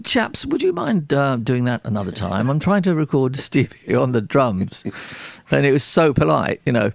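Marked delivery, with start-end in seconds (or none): 0.0-4.8 posh English voice of George Martin. Retold or imitated. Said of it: "very posh, privately educated voice of George Martin".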